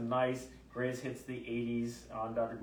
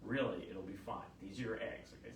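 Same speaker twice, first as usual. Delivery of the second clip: lower, softening retold reassurance; gentle reassurance; 3 semitones lower, 3 dB quieter than usual. Doctor reassures patient about her eggs, gentle calming. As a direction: calmly talk a confused patient down.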